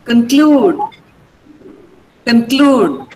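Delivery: "conclude" with a strong, long CLUDE; light "con", then hit CLUDE in "conclude"; stress on CLUE. Shown as a demonstration. Teacher models a word for students, second-syllable stress on "conclude". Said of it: "mark the stress before clue".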